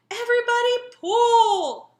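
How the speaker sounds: loud, high rallying call; urging shout. A narrator's reading. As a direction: heave them on with all you've got. Santa urging reindeer to pull.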